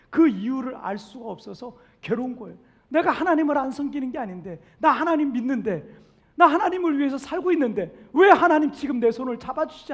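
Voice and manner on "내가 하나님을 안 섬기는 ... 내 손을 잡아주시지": acted plea, growing louder and higher; preacher voicing a hurt believer; pained protest. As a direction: protest to God, building in force.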